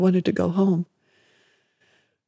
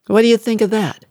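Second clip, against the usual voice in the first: louder, higher, mocking jab; taunting mother; 5 semitones higher, 6 dB louder than usual. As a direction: sneer it down at a scared child. Mother taunting the frightened boy.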